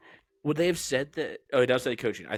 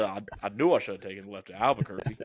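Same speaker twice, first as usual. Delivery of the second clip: Foghorn Leghorn impression; 3 semitones lower, faster than usual. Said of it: "I'll say, I'll say".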